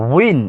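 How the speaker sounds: উইন as one syllable "win", starting on a rounded w; careful waw pronunciation. Shown as a demonstration. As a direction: demonstrate the w glide in উইন. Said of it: "ওয়াওর উচ্চারণটা লক্ষ্য করে শুনুন". (উইন-এর শুরুতে ওয়াও-এর স্পষ্ট উচ্চারণ)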